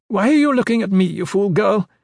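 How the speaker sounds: put-on high old woman voice, scolding; scornful old woman. Old mistress scolding the younger woman, high and scornful. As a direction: play the cranky old mistress looking down on the girl. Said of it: "the old woman asked".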